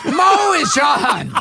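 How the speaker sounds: put-on high, drawn-out kid's yell; excited yelling. Retelling a kid calling his mother in the kitchen, yelling. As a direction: call it out slowly to the next room. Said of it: "I started yelling out".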